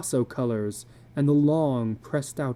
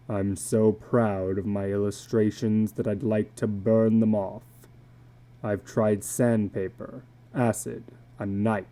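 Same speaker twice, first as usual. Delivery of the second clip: put-on lower, brooding old drifter voice; a weary tattooed man confessing low; illustrated man; 3 semitones lower than usual. Tattooed man confiding to a stranger at dusk, low and weary.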